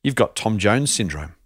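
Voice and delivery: setting up a groaner; telling a dad joke. Acted. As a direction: deliver a cheesy punchline. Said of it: "a joke, which I'm gonna share".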